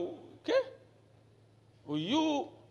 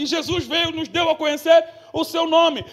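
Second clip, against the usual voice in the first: preaching loudly; 7 semitones higher, 7 dB louder than usual. Acted. Preaching at full force.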